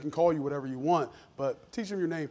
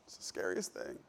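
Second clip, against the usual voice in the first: hushed repeat; 9 semitones lower, 12 dB quieter than usual. Real, not acted. Repeating fear, voice dropping low.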